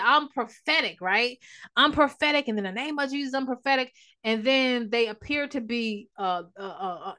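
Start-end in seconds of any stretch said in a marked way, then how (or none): 0.0-3.9 imitating a self-proclaimed prophet, pitched higher; mock prophet. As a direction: parody a pompous spiritual claim, higher. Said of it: "They'll say".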